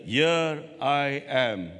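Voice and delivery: very slow, hushed reply; reverent answer. Acted. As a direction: answer slowly, in awe. Jacob answering God at night.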